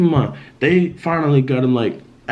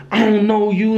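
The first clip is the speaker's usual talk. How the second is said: higher-pitched mock demonic voice; a hint of demonic menace, raised in pitch; retold demonic voice; 7 semitones higher than usual. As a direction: imitate a possessed brother, pitched up. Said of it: "a different demonic type voice".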